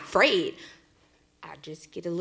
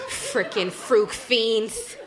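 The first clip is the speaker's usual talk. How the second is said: dramatic aside; 3 semitones higher, 4 dB louder, much slower than usual. Acted.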